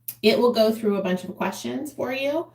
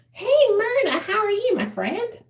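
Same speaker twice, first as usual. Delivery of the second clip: excited greeting; 12 semitones higher than usual. Real, not acted. Greeting a viewer in chat.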